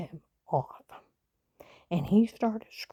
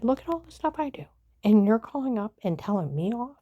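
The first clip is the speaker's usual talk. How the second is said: retelling the fight to the grandson, voice raised and fast; heated retelling; 4 dB louder than usual. Retold or imitated. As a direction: fire the questions back at him, worked up. Retold heated argument with grandson.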